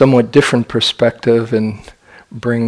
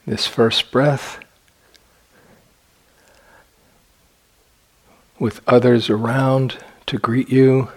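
unhurried phrases with long, spacious pauses; guided meditation. Acted. Meditation teacher guiding sitters to imagine being born, in guided meditation delivery. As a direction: lead them gently, leaving silence between phrases.

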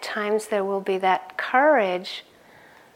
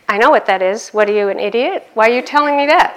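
put-on loud indignant child, faster at the end; louder offended kid retort; indignant nephew; 7 dB louder, faster than usual. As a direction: scoff like an insulted little boy. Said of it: "So he had to have that".

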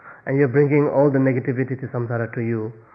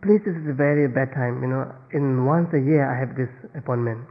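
feigned regret; 2 semitones higher than usual. Pretend. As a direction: plead an excuse with put-on regret. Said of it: "and you pretend".

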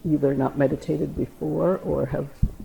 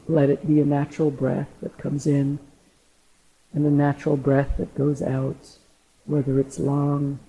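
guided meditation=32. Acted. Leads a meditation.

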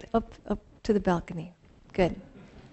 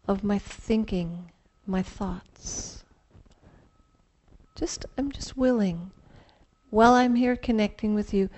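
guided meditation. Acted. Leads a mindful partner exercise.

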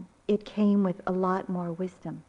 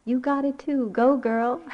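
higher, lightly voiced child's cheer; imitated granddaughter; 4 semitones higher, 3 dB louder than usual. Grandmother recalling granddaughter when losing heart, mildly imitated cheer. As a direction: echo a little girl's encouragement, only mildly raised. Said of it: "I always remember her".

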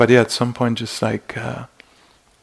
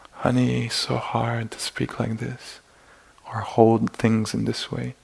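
tender; 6 dB quieter than usual. Retold or imitated. Compassionate words to oneself.

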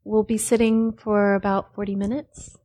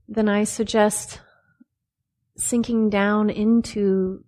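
unhurried phrases with long pauses between; measured meditation-teacher delivery; guided meditation. Real, not acted. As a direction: calmly guide them into the body, leaving space after each phrase.

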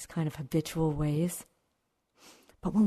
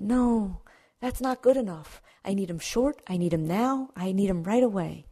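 higher, insistent demanding voice; impatient student demanding teachings, higher and louder; demanding seeker; 3 semitones higher, 3 dB louder than usual. Acted. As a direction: press hard for it right now, pitched up. Demanding man voiced in story.

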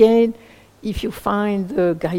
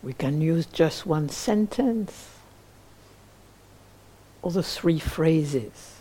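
guided meditation. Acted. Teacher leading listeners toward appreciative joy, in a spacious guided meditation voice. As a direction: guide gently, leaving long silences between phrases.

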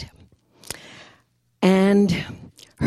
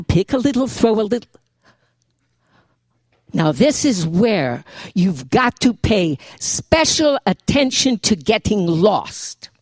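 Jewish grandmother. Acted. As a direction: lecture like a wise old Jewish grandmother. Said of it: "written in the voice of the Jewish grandmother".

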